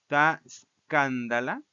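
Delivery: "escándala" said slowly as SKAN-da-la; measured Greek recitation, "escándala" stressed on KAN; stress on antepenult. Shown as a demonstration. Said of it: "Regresa a la misma posición".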